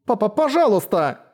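understated narrated sobbing plea; tearful plea. A narrator's reading. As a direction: beg your father, close to tears. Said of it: "всхлипнула Хедди".

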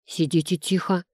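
plain reading voice

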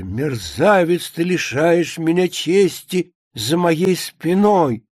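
slow, declaimed indignation; mildly hammed-up outrage; theatrical accusation. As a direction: denounce the scoundrel, stretching each phrase. Maid reads duke's accusation.

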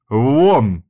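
loud commanding shout; order out. A narrator's reading. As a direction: throw them out with one word. Hostess throwing women out. (громкий приказ уйти)

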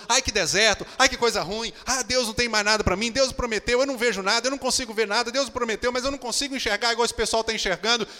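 a touch of hammed-up self-pity, building; whiny complaining. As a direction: moan about the desert like a sulking believer. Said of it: "Ao invés de eu ficar murmurando, reclamando".

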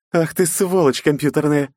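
angry curse. Acted. Knight cursing the AI.

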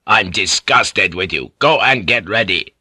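stern lordly anger; forceful, contemptuous order; disgusted dismissal. Acted. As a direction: send her off with disgust. Lord dismissing her in disgust.

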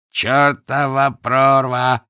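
put-on loud, slow, drunken slur; barely moving her tongue, drunk; drunk slurring. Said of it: "еле ворочая языком".

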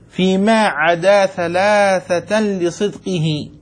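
يلقي بيت النظم ببطء وتأنٍ; رتّل البيت كأنك تحفّظه للطلاب; إلقاء نظم بطيء. Acted. Teacher recites a memorised verse. (إنشاد متأنٍّ لبيت من النظم)

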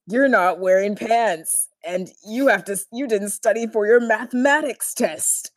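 hammed-up, lightly voiced cartoon villain; Mark Hamill Joker. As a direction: taunt like a hint of the Joker. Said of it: "my really horrible Mark Hamill voice".

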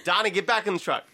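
loosely attempted Boston accent; a singer-actor. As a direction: try a mild Boston accent. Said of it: "put on my best Donnie Wahlberg".

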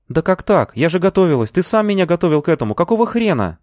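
furious she was passed over; indignant protest. A narrator's reading. Lina protesting to the boss, indignant.

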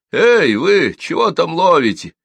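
put-on high, loud children's calls; kids shouting. A narrator's reading. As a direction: yell across the river. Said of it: "хором закричали ребятишки". (громкий детский крик)

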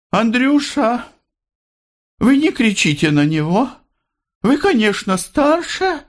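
high, tender request; gently pleading. A narrator's reading. Mother gently asking Andrey not to shout, high and tender. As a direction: ask him kindly, almost begging. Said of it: "сказала Андрею просительно ласково".

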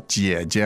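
姐姐 slow, starting low; third tone. Shown as a demonstration. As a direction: draw out 姐姐 on a low tone. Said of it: "that's the third tone".

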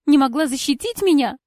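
loud, hurt accusing question; Cora, stung and offended, demanding an answer; hurt reproach. A narrator's reading. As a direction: throw the hurt back at her. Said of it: "в её глазах плещется обида".

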